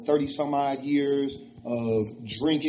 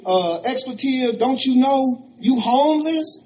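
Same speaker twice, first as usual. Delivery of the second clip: laughing disbelief; 10 semitones higher, 8 dB louder than usual. Retold or imitated. Rick laughs at him.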